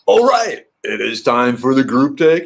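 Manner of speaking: high, loud "All right"; excited announcement. Real, not acted. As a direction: pump it up. Announcing group take.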